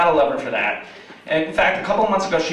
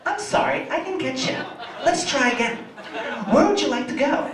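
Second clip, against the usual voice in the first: high, apologetic phone-agent voice; Julie; 8 semitones higher than usual. Retold or imitated. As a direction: imitate a patient automated assistant. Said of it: "Julie's like".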